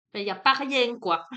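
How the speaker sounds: accent du Sud, joueur; southern French accent. Real, not acted. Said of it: "Avec mon petit accent du Sud".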